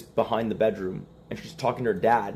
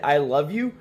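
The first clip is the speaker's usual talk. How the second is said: "you" rising at the end, mock earnest; trying to mean it; 3 semitones higher, 4 dB louder than usual. Husband repeats it on wife's orders, trying to mean it. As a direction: push "I love you" out with a lift on "you". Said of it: "Say it like you mean it".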